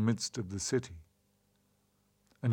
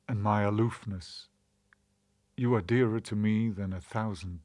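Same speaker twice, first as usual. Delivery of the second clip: poem recitation. A narrator's reading. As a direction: recite it like a solemn prose poem.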